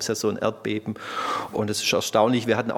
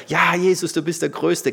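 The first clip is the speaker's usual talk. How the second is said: mock easy praise; 4 semitones higher, 4 dB louder than usual. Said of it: "klar kann ich dann anbeten".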